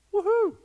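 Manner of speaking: loud high woohoo; joyful whoop. Real, not acted. Preacher thrilled by the verse, whooping aloud to the church. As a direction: let out a whoop of delight.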